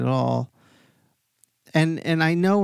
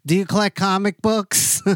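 higher, louder mock old lady asking; bold grandmother; 7 semitones higher, 4 dB louder than usual. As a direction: play the grandmother fearlessly blurting it out, pitched up. Grandmother asks mobster.

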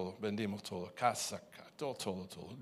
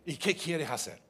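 loud, higher angry comeback; angry retort; 8 semitones higher, 9 dB louder than usual. Retold or imitated. Husband retelling how he snapped at his wife, angry. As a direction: snap back at her, indignant.

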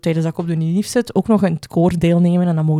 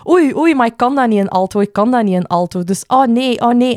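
put-on whiny girl; 2 semitones higher than usual. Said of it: "die zei heel de tijd lang".

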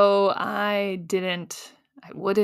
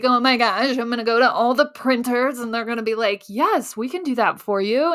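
jazzed up; 2 semitones higher than usual. Retold or imitated. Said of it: "I was so jazzed up".

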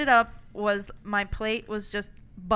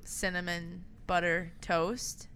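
whispering; 2 semitones lower, 7 dB quieter, slower than usual. Real, not acted. Whispered nostalgic food name.

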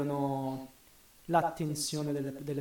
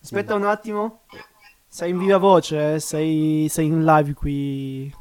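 talking loud into phone; 10 dB louder than usual. Real, not acted. Talking to caller on speakerphone.

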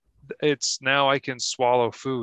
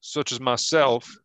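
put-on Kentucky pirate accent. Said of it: "this pirate from Kentucky talks".

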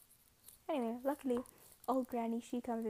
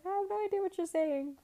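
higher, louder mock complaint; mock exasperation; 7 semitones higher, 6 dB louder than usual. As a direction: play up being totally lost. Mock frustration at missing subtitles.

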